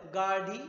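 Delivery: गाढ़ी with breathy aspirated ढ़. Shown as a demonstration. Teacher stressing the ढ़ in गाढ़ी. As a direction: push air on the ढ़ in गाढ़ी. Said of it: "ढ आ गया".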